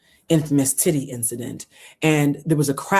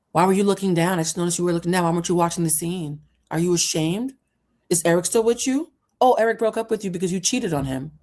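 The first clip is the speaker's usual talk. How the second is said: higher, faster needling interrogation; mocking host; 4 semitones higher, faster than usual. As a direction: needle her like a smug talk show host. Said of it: "Tyra pauses and says".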